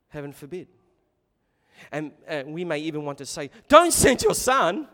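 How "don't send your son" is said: loud pleading cry. Acted. Listener begs the owner not to send his son, loud pleading cry.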